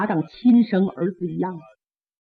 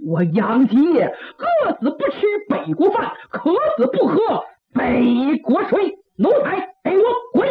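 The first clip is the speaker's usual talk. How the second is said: defiant scorn; 5 semitones higher than usual. Acted. Old general defies enemy food.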